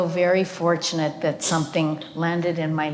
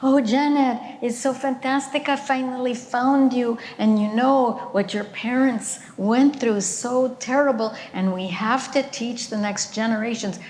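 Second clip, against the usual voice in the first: put-on light German accent, pitched higher and eager; imitating German accent; 4 semitones higher than usual. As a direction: retell the German caller in a mild German accent, brightly higher. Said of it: "strong German accent".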